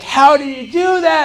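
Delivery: high, slow astonished question; amazed kids. Retold or imitated. Classmates amazed at the solved problem, high incredulous. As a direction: marvel at it like stunned classmates. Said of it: "all the kids were like".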